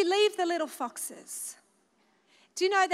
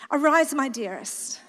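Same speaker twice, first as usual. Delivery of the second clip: "Arise, my dearest" read lower and poetic, with a laugh; lower, dreamy poetic read of "Arise, my dearest"; 5 semitones lower than usual. Shown as a demonstration. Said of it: "I need to read it, like, poetic".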